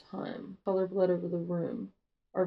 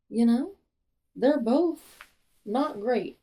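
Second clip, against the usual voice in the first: higher, louder, fast and insistent; emphatic rant; 4 semitones higher, 6 dB louder than usual. Real, not acted. Ranting to viewers about the love triangle. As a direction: push the opinion hard.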